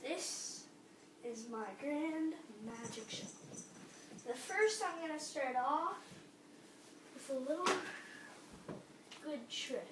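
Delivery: grand showman announcing the show; kids party magician. Pretend. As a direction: present it like a stage magician. Child announces his magic show.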